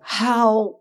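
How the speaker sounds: drawn-out, high establishment voice; patriarchal establishment voice. Retold or imitated. Establishment type meeting a mixed-race man, slow patriarchal tone. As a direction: imitate Adelaide establishment condescension, very slowly. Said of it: "this particular patriarchal, uh, tone of voice".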